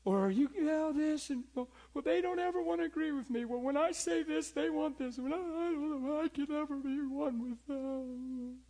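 high whining voice of a complaining spouse; whiny caller. Retold or imitated. Complaining church member calling the pastor, whiny and high. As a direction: whine like a hurt church member. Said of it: "people calling him complaining".

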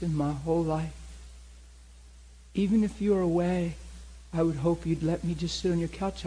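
sedated woman. Retold or imitated. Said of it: "She's talking real sedated".

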